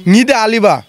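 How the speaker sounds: word said in reverse; backwards speech. Shown as a demonstration. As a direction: read the word backwards, syllable by syllable. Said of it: "আপনি তো শব্দ উল্টো করে বলতে পারেন".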